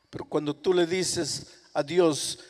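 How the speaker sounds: usual speaking voice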